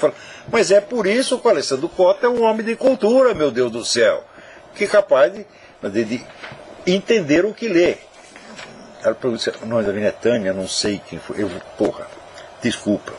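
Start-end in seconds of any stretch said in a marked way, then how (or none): 0.5-8.0 raised pitch, emphatic retold outburst; exasperated exclamation. Host retelling praise of Alessandro Cota, emphatic exclamation. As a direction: exclaim it like the obvious explanation.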